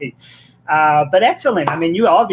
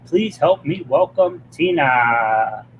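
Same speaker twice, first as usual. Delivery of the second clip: drawn-out guest introduction; show host's welcome; slower than usual. Real, not acted. Show host welcoming Tina to the audience, drawn-out announcement. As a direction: stretch it out, slow, like bringing a guest on stage.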